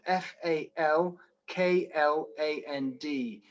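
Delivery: "F A L K L A N D" spelled slowly, letter by letter; spelling it out. Shown as a demonstration. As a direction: spell out "F A L K L A N D" carefully for the listeners. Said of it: "it's called Falkland".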